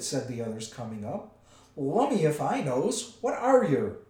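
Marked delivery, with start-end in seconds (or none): 1.8-4.0 loud, raised troll voice; baffled troll. A narrator's reading. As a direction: demand an answer, puzzled. Baffled troll questions his captive.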